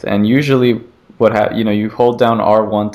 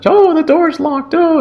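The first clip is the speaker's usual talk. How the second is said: high, louder frightened cry; panicked woman; 4 dB louder than usual. Retold or imitated. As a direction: play the trapped lady in a panic. Scared lady trying the door.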